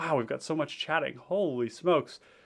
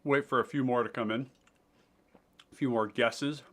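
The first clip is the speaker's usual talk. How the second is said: chewing while talking; soft words around a bite of food; mouth full; 4 dB quieter than usual. Real, not acted. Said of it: "turns into, like, an A S M R mukbang".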